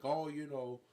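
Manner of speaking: lightly voiced nervous begging; mock pleading, hesitant and placating; Nicolás Maduro. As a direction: backpedal apologetically in a put-on accent. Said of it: "just begging Donald, like".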